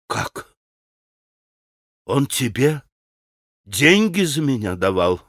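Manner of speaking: hushed shock growing into a cry; hysterical cry. A narrator's reading. Grushenka learns money was offered for her, mildly hysterical. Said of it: "истерически вскричала Грушенька".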